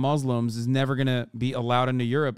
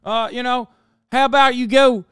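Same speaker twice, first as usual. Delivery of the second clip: loud, higher redneck bigot yelling; mock American racist; 8 semitones higher, 7 dB louder than usual. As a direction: play a brash American bigot shouting insults. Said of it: "American-style racism where it's like".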